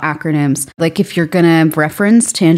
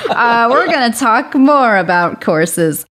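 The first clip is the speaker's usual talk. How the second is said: laughing; 6 semitones higher than usual. Real, not acted. Laughing at her own slip.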